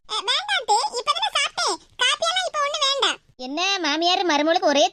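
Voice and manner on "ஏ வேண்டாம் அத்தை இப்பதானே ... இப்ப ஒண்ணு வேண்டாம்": lightly voiced daughter-in-law. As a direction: politely refuse mother-in-law's offer.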